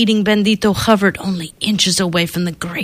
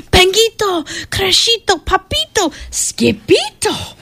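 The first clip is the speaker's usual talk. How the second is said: calling out; 11 semitones higher than usual. Acted. Mama calling the kittens.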